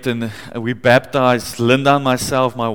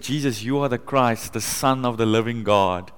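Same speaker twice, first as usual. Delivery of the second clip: softly proclaiming to Jesus, kneeling; hushed, heartfelt confession; a soft prayer said on his knees at the Mount; quiet proclamation; 2 semitones lower, 6 dB quieter than usual. Retold or imitated. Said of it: "I proclaimed it there".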